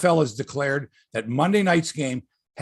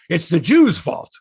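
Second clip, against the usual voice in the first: deadpan punchline; 3 semitones higher, 8 dB louder than usual. Retold or imitated. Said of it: "one of the punchlines was".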